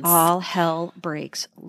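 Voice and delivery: ominous. Real, not acted. Co-host finishes the suspense line.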